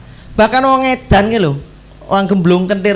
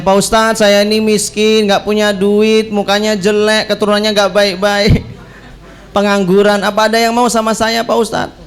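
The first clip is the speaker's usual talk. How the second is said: self-deprecating suitor; 2 semitones higher than usual. Retold or imitated. Jobless man asking the ustadz for a match, mock-plaintive.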